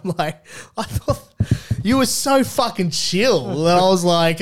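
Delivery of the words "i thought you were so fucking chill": high, loud, laughing disbelief; acting out baffled protest; retold incredulity. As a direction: exclaim it slowly, hammed-up amazement. Retold incredulous reply to partner.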